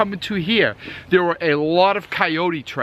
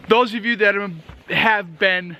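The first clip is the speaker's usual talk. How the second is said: lips numb from the cold; talking through numb lips; 3 semitones higher than usual. Real, not acted. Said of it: "my lips are numb".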